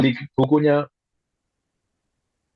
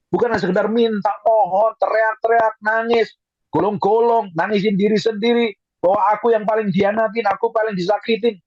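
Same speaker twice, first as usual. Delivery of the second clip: raised, emphatic sermon voice; preaching at full force; 8 semitones higher than usual. Real, not acted. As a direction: reprove them in a high preacher's voice. (khotbah tegas dengan nada tinggi)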